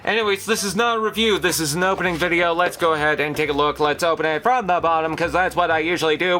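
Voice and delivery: baseball announcer. Real, not acted. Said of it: "Why am I starting to sound like a baseball announcer?".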